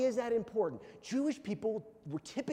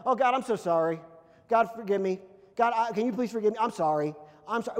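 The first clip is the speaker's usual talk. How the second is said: louder, hurried plea for forgiveness; mock pleading apology; 6 dB louder, faster than usual. Believer who messed up begging God, mock pleading. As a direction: plead loudly, as if acting it out.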